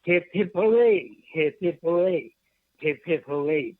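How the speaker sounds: a mild cheer, fading with each repeat. Acted. Poet cheering inside his poem, mildly. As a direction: call out the hoorays like a small toast. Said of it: "Why don't you read it".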